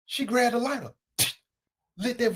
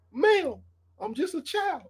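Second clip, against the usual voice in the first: mock childlike plea; 5 semitones higher, slower than usual. Comic catchphrase refrain.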